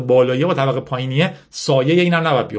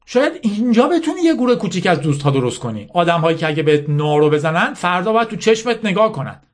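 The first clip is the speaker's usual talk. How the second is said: higher-pitched insistent lecture, lightly acted; bitter General Mala; 6 semitones higher than usual. Mala lecturing Yasmin on winners and losers, mildly bitter insistence. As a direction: drive the hard lesson home.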